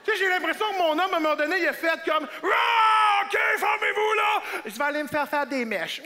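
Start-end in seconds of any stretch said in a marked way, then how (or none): 2.4-4.4 high yell, easing off; loud, high-pitched exasperation; exasperated outburst. Acted. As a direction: cry out and give up. Man at breaking point.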